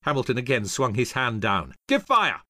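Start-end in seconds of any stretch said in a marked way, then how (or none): 1.9-2.4 high-pitched artillery order; raised battlefield yell; shouted command. A narrator's reading. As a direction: shout it as the hand drops. Hamilton orders cannon fired.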